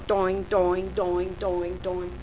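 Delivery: low repeated boing sounds; imitated "doing" noises. Shown as a demonstration. Teacher pointing out each one before Baha'u'llah, low boing noises. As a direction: bounce out low cartoon boings, fading.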